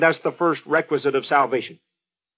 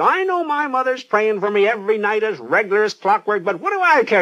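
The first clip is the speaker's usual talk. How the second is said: defiant sailor voice; 2 semitones higher than usual. Retold or imitated. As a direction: toss it off like a reckless sailor. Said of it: "he said".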